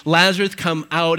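called out loud and commanding; loud cry. Acted. Jesus calling dead Lazarus from the tomb, loud command. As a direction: call him out of the tomb. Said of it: "He cried out with a loud voice".

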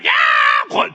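very high battle scream; explosive yell while swinging a sword; all-out charging shout; wild attack yell. Acted.

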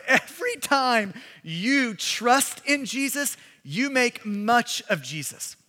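slow, deliberate repeat. Shown as a demonstration. Preacher repeating his point slowly to the congregation, deliberate. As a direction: say it again slowly so it sinks in. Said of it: "I'm gonna say that one more time".

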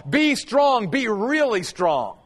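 "really" slowed and leaned on; stress on really. Shown as a demonstration. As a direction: press "really" in "Be really strong". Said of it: "And I love this".

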